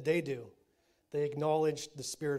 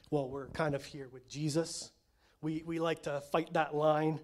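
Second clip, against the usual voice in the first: ordinary talk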